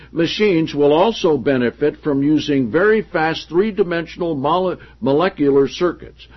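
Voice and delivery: projected, deliberate reading of a book; emphatic read-aloud. Acted. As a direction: read the passage out to the room with emphasis. Reads book passage aloud.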